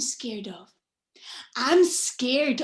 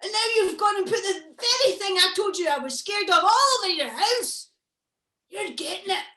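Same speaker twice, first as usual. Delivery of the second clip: much higher and louder, a monster screaming betrayal; furious monster shout; 9 semitones higher, 8 dB louder than usual. Acted. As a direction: yell at Granny like a betrayed beast. Monster arrives furious at Granny.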